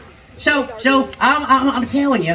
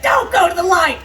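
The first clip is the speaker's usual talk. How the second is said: yelling at it; 4 semitones higher than usual. Retold or imitated. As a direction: yell it like a desperate plea. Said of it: "I yell at it".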